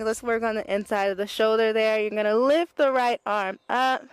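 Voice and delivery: muffled, face down to the floor; talking into the mat. Real, not acted. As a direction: speak with your face in the mat. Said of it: "I'm talking into the mat".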